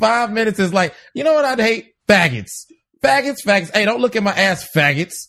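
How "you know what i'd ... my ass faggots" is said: mocking rant, pitched way up; Eddie Murphy. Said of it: "Eddie Murphy goes".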